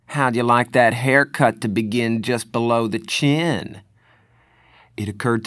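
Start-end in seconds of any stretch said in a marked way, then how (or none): 0.1-3.8 a hint of a sneering threat; lightly voiced menacing tough; menacing thug.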